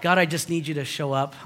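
just ask simply and softly; quiet sincere plea; simple honest prayer. Shown as a demonstration. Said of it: "How about, like".

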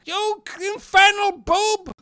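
high, slow villain screech; Skeletor. Retold or imitated. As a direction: shriek it like a cartoon villain. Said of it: "As Skeletor would say".

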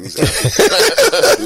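very high, slow, loud mock taunt; mocking classmates. Classmates teasing the new boy, high slow mocking taunt. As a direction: drag it out like teasing schoolkids. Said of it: "everybody was saying African".

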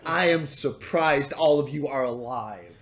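slow, drawn-out exasperated rant; exasperated monkey. Acted. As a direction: lay out the party's excess wearily. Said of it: "and goes".

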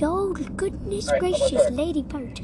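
retold dad's cry, no real volume; mock scream. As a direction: draw out a mild mock shriek. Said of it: "and he screamed".

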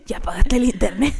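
mundane voice note. Retold or imitated. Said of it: "Yo así que".

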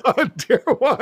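high, baffled what; surprised. Real, not acted. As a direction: ask in disbelief. Confused by misspoken word.

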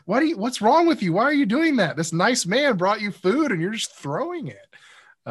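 very high, loud doll voice scolding, fast at the start. Retold or imitated. Doll scolding Conan for throwing food, very high mock voice. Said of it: "and then it's like".

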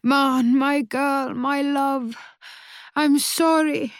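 calling after. A narrator's reading. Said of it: "Mamma calling to her".

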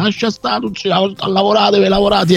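hotel owner voice. Retold or imitated.

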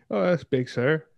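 a cheery West Country local greeting you, lightly put on; West Country accent. Podcaster doing his best West Country accent for friends, light and cheery. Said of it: "my best West Country accent".

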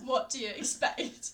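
drawn-out, half-laughing mock exasperation; slow retort. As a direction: spell it out slowly. Retold deadpan retort, slowed.

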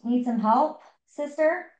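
lilting, rising question; questioning offer. A narrator's reading. Park ranger offers the stranded woman help, lightly asking. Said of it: "walked by and asked".

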